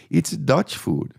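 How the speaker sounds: imitating a server, slowly; drawn-out answer.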